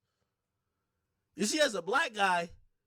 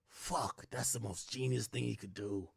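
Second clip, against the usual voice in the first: hushed aside; 10 semitones lower, 7 dB quieter than usual. Retold or imitated. His reaction to Budden coming out.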